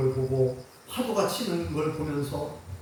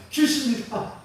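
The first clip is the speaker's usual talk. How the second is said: mock scared; 6 semitones higher than usual. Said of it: "막 그러는 거예요".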